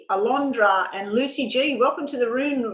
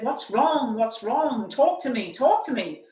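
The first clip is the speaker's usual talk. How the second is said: retold concerned pleading; 3 semitones higher, slower than usual. Friend in a nightmare begging Betty to talk, imitated concerned pleading. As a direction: imitate a worried friend, each phrase falling.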